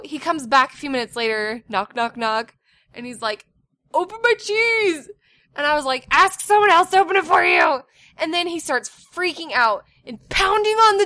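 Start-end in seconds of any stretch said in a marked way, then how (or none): 3.9-5.1 high imitation of an insistent kid; demanding child. Son back knocking at mom's door, mock demanding kid voice. 6.1-7.8 louder, higher retold yell; exasperated yell. Mom answers son through the door, retold exasperated yell. Second answer, mother losing patience.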